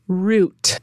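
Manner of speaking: General American "root" with a long oo; Generican accent. Shown as a demonstration. Host reading the next word, in a Generican accent. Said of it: "do my best Generican accent".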